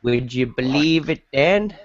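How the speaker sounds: lightly hammed-up Southern US twang; Southern US accent. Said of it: "a middle American Southern accent".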